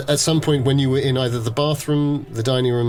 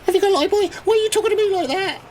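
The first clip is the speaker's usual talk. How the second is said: high, far-off menacing thug; much faster than usual. Acted. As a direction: menace him like a pub brawler. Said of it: "a big fucking guy gets out and goes".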